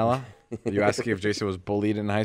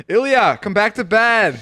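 higher, louder teasing call back to bed; mock scream; 12 semitones higher, 8 dB louder, slower than usual. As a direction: playfully shout him back to bed, hammed-up. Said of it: "and then I scream".

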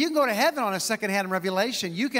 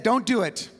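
louder, emphatic retold advice; dignified old usher; 4 dB louder than usual. Old usher advising a nervous young preacher to quit, lightly voiced dignified elder. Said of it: "dignified man".

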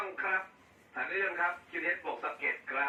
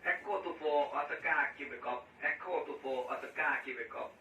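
slow callsign spelling; much slower than usual. Real, not acted. Spelling callsign slowly on radio.

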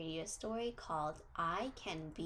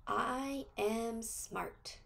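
very slow, each word spaced out; slow affirmation for kids to repeat; 3 semitones higher, much slower than usual. Shown as a demonstration. Teacher leads children in a slow affirmation. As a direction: lay it out word by word for the class to echo.

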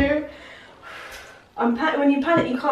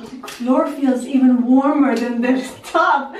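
laughing. Real, not acted. Sitting down after ice bath.

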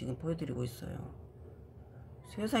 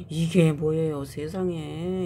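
louder, delighted "what is this?"; amazed exclamation; 5 dB louder, slower than usual. Real, not acted. Vlogger amazed at her cactus roots, loud delighted wonder. Showing surprising new roots.

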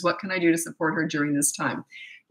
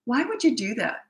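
berating; 6 semitones higher than usual. Acted. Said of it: "You're berating them".

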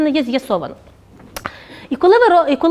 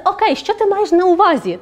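higher, open and curious asking; calm clarifying question; 5 semitones higher than usual. Shown as a demonstration. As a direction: ask openly, with no defensiveness. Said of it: "А питається". (спокійне, відкрите уточнювальне запитання вищим голосом)

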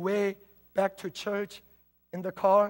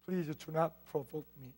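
mock warning; 3 semitones lower, 6 dB quieter than usual.

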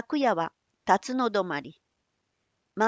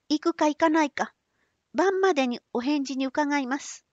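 put-on high, polite young woman; 6 semitones higher than usual. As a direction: answer sweetly as a young girl. Otsu replies.

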